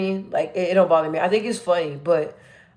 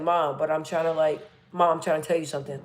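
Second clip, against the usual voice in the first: imitating a lower, softer former voice; bassy old voice; 3 semitones lower, 8 dB quieter than usual. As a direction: drop it low and let it sink away. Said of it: "a lot of bass in my voice".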